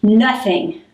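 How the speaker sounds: short falling "Nothing" that shuts the question down; sullen teen reply. Retold or imitated. Teenage child answering parent's question, dismissive. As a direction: brush a parent off with one word. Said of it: "this is the response I get".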